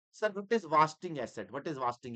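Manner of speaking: slow, drawn-out student question; mock student question. Teacher playing a student who has never heard the term, drawn out slowly. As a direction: ask it like a baffled student.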